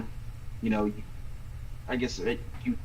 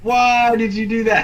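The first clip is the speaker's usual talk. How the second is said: high and loud, baffled; exasperated high-pitched outburst; 11 semitones higher, 8 dB louder than usual. Retold or imitated. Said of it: "And you're just like".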